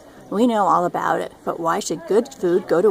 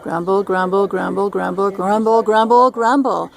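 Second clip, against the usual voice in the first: loudest grumbling; 4 dB louder than usual. Acted. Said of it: "grumbled the loudest".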